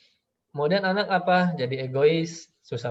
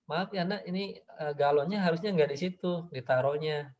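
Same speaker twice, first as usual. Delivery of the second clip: put-on softer, tender apology to the child; gentle apologizing parent; 4 dB quieter than usual. Parent gently apologizing to the child about the jug, tender. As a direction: soothe the kid, no blame. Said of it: "kata orang tua".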